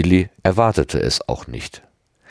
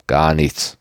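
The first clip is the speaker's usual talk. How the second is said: ordinary delivery, nothing marked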